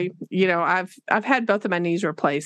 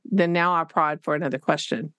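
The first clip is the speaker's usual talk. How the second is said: ordinary delivery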